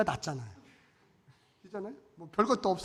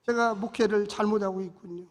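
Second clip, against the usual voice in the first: tearful repentance; 5 semitones higher, 10 dB louder than usual. Retold or imitated. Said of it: "내가 눈물로 회개하고".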